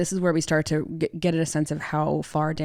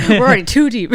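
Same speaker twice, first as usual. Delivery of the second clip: laughing; 6 semitones higher, 11 dB louder, faster than usual. Real, not acted. Co-host laughs, echoing the line.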